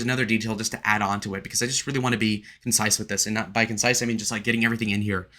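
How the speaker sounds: rushing to get everything in; quick, hurried explanatory aside; talking fast. Real, not acted. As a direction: cram it all in quickly. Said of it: "I'm talking really fast".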